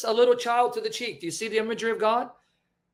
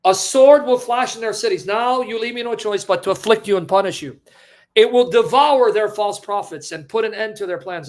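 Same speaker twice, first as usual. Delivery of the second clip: raised, forceful scripture quote; loud warning; 4 dB louder than usual. Acted. Preacher booms God's warning to the congregation, loud and forceful.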